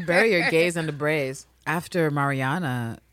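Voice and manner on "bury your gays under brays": Bury your gays under brays said through a laugh. Shown as a demonstration. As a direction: repeat the title laughing. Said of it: "All right".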